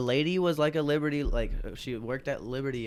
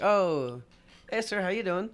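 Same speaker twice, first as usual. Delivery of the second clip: higher, overly sweet fake-polite greeting; mock polite greeting; 8 semitones higher, 4 dB louder, slower than usual. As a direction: play innocent for the angry man. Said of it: "I'm like".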